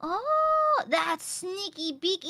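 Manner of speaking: high, delighted exclaim; delighted squeal. Real, not acted. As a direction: squeal with glee. Delighted at the trick.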